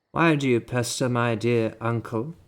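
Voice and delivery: put-on loud British accent. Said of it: "speaking in a British accent".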